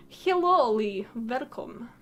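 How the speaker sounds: greeting with a rough Russian accent; bad Russian accent. Real, not acted. Streamer welcoming a viewer, in an accidental bad Russian accent. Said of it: "really bad, like, Russian accent".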